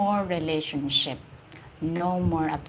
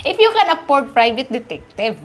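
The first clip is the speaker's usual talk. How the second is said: louder, still laughing; words pushed out through laughter; 4 semitones higher, 8 dB louder than usual. Real, not acted. Joking to viewers about a private detective, laughing. Laughing after her joke.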